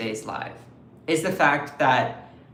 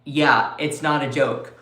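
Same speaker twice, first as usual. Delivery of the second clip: voicing Canada; 3 semitones lower than usual. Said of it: "Canada is like".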